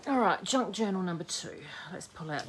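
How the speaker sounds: whispered aside; breathy whisper to herself. Real, not acted. Aside while picking journal.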